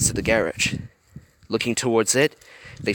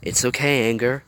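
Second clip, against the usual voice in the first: gently; 3 semitones higher than usual. Acted. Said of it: "Joy said gently".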